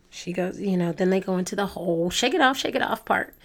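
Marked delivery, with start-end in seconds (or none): 2.1-3.3 voice cracking. Real, not acted. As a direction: voice cracks on a word. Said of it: "Sorry, my voice just cracked".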